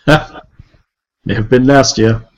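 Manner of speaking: drawn-out, slow repeat of nastier; slow mock echo. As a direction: stretch each word out teasingly.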